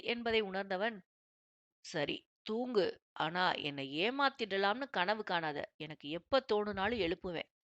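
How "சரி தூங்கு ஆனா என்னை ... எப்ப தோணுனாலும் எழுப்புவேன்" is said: playful husband. Acted. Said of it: "என சொல்ல".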